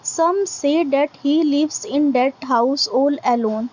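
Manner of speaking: very slow, deliberate recitation, word by word; slow poem reading. Acted. Teacher reading a poem line to students, slow recitation. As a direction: read each line out slowly for the class to follow.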